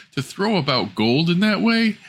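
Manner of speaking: high, sneering cry; jealous daughter. Acted. Jealous daughter mocks her sister, high and sneering. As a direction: spit out the envy. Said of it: "cried the woman's daughter".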